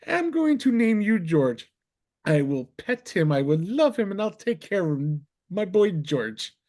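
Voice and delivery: put-on high, doting baby talk, slowing at the end; lightly voiced doting drunk; mock cooing. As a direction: coo over him like a new pet. Cooing to leprechaun, retold.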